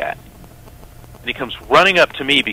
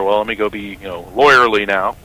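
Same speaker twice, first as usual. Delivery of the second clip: mock lawyerly; 2 semitones lower than usual. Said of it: "so I figure".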